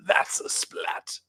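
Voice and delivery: slow breathy whisper. Retold or imitated. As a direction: hush it out slowly. Quoting the cartoon line.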